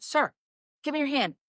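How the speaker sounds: imitated nurse keeping it together; faking composure. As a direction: instruct a patient as if all is under control. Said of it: "I'm really good at, like, faking it till I make it".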